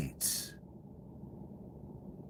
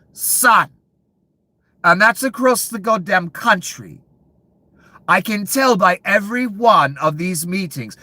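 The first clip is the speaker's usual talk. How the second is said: higher and louder, a heated tirade; raging at the panel, higher and louder; angry rant; 7 semitones higher, 4 dB louder than usual. Real, not acted. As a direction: build into a furious rant. Ranting about greedy officials.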